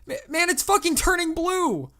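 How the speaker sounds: very high, loud hysterical cry; panicked yelling. A narrator's reading. Young caller tells the operator his finger is discolored, hysterical panic. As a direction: scream it in overblown alarm.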